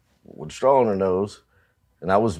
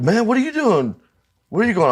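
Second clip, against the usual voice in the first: higher-pitched, far-off mock voice of the other band; imitating the guys from the other band, pitched way up; mock bandmates' voice; 13 semitones higher than usual. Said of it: "And they're like".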